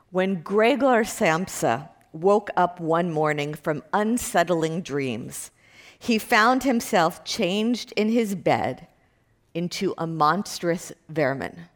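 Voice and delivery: slow, measured reading of an opening line; literary reading. Acted. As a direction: read it out slowly, phrase by phrase. Reads the opening line aloud.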